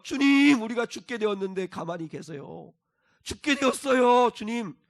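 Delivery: loud, high desperate plea; crying out to the Lord. Retold or imitated. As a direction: cry out as if the boat is sinking. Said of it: "그렇게 부르짖잖아요".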